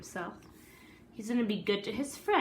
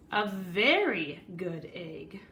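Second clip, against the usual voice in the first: whispered aside; slower than usual. Acted. Egg proudly whispering to the listeners, slow whisper. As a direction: whisper it like a secret boast. Egg boasts in his story.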